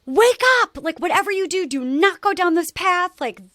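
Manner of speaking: put-on high, loud imagined plea to the kids; urgent pleading yell. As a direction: cry it out as if shaking them awake. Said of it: "shake them and be like".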